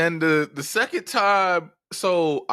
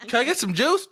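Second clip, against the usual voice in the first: lightly voiced little kid, higher pitch; a hint of a small child's voice, acted out; six-year-old self; 7 semitones higher than usual. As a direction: play your younger self, pitched up. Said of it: "Six-year-old me was like".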